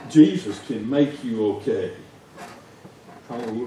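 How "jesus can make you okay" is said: louder, firm declaration; firm proclamation. Shown as a demonstration. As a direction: proclaim it boldly.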